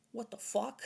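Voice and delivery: high, loud shocked what; stunned reaction. Retold or imitated. Gunman reacting to his laugh, high shocked outburst. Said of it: "and they're like".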